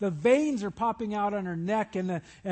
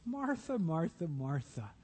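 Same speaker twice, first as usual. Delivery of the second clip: soft gentle chiding; 3 semitones lower, 5 dB quieter than usual. Acted. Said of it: "Can't you just hear his voice?".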